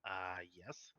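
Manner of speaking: yes rising like a question; unsure questioning rise on yes; uptalk. Real, not acted. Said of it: "Why was that with an upward inflection, like you were questioning?".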